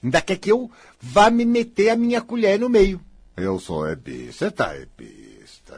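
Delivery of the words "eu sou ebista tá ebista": mocking mimicry. Mimicking the other person mockingly.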